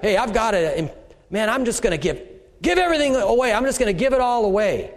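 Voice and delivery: impulsive excitement. Retold or imitated. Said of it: "you just got".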